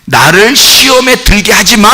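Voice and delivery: commanding God like a son; firm command. Shown as a demonstration. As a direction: command it, don't beg. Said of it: "명령이니까 잘 봐요".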